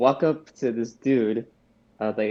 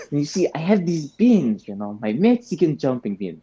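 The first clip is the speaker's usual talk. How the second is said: Garbanzo voice. Acted. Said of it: "shake it around and go".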